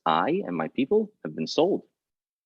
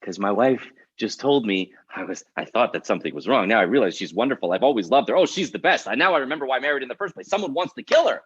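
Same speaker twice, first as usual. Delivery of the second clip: furious husband; 3 semitones higher than usual. Acted. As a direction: gabble it, climbing into outrage. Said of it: "'Cause he's furious".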